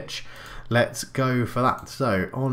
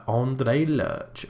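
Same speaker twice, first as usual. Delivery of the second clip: sexy porn star voice. Acted. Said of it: "I said that like a sexy porn star".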